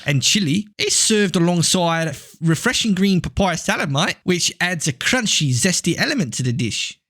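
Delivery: put-on Australian accent. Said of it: "steer the accent back to where it needed to be".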